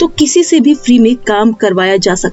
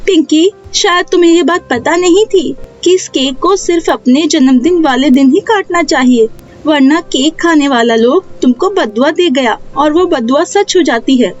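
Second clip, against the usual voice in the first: lightly voiced child, higher pitch; explaining young girl; 5 semitones higher than usual. Neha tells Pinky the rule of the cake, higher child voice.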